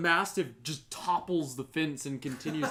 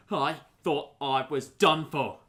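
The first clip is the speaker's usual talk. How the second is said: shaken victim; 5 dB louder than usual. Acted. Rescued victim, first take.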